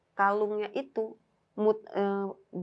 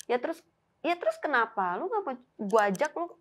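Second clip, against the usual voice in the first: higher-pitched, insistent questioning; retold exasperation; 4 semitones higher than usual. Teller presses friend who refused help, exasperated. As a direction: nag a friend in a raised pitch.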